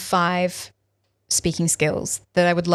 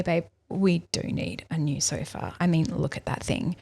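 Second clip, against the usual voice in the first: understated; 6 dB quieter than usual. Shown as a demonstration. Wife casually suggesting a new sofa to partner, understated and soft. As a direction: play it down gently, quieter. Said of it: "if I really understate it".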